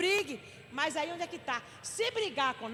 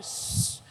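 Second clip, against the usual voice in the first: sharp hissed shh, no voice; imitated splash. Helper dousing the floor once more, hissed splash. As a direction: mimic a big slosh with a long hiss. Imitates throwing product again.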